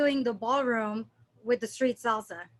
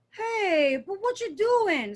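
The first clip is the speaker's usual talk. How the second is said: higher, worried Dominican lilt; Dominican worry accent; 7 semitones higher, slower than usual. Retold or imitated. Imitating a Dominican speaker's worried Dominican accent. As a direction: Dominican accent, pitched up like you're fretting. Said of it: "it's like a worry accent".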